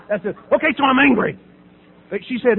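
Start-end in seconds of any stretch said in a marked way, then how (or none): 0.5-1.4 exasperated admission. Retold or imitated. Cornered patient snaps at group.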